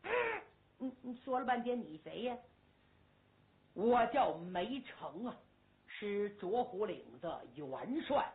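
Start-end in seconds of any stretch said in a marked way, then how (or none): 3.7-8.3 lightly voiced old marshal.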